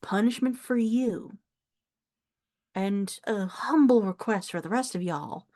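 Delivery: lightly voiced older Southern farm woman; a hint of a proud Southern elder; proud elderly countrywoman. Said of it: "like, elderly woman who has pride".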